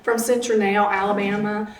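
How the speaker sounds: slow Southern drawl, lightly done; a hint of a Southern Alabama accent; Audrey's slow Southern drawl. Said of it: "I always do my Audrey accent".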